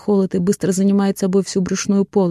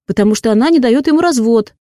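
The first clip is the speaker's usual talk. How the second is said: explaining the obvious; 5 semitones higher, 6 dB louder than usual. Acted. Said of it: "таким тоном, словно объясняет элементарные вещи".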